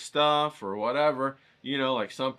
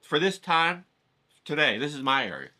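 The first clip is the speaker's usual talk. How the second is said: higher, pushy lady claiming her spot; territorial lady; 4 semitones higher, 5 dB louder than usual. Retold or imitated. Lady telling the painter this is her area, pushy and higher. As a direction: stake your claim like a bossy street vendor. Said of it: "And it's this lady, right?".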